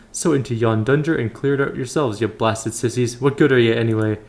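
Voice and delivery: lightly voiced gruff-tempered scold; a touch of scornful bluster; scolding knight. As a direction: berate them as useless, in old-fashioned speech. Voices a scolding game character.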